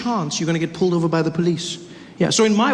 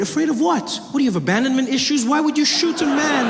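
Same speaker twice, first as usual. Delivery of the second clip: high-pitched, incredulous questioning; incredulous challenge; 7 semitones higher than usual. Acted. Challenging a man who shot someone fleeing, incredulous. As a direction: demand an answer in comic disbelief. Acted challenge to shooter's excuse.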